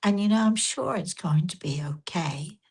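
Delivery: soft, gently consoling; quiet, gentle reassurance. Retold or imitated. Woman consoling a stranger who missed her flight, quiet and gentle. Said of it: "very quietly, very gently said to her".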